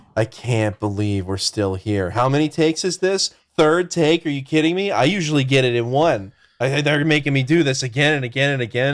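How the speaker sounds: fed-up, weary, bored, exasperated grumble. Acting out an actor complaining about retakes on his movie set, mock-exasperated. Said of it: "He sounded like exasperated".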